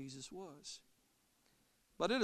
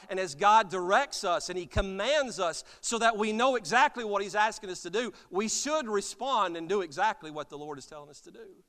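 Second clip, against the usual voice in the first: preaching exhortation; 4 semitones higher, 7 dB louder than usual. Real, not acted.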